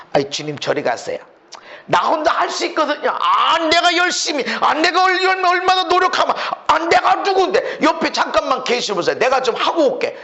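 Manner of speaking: mock proud believer; dismissive self-reliance. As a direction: wave the Lord away. Voicing a proud self-reliant person.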